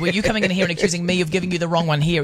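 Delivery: fast, indignant rebuttal; defensive clerk. Acted. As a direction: argue back at the customer. Acted rude clerk arguing.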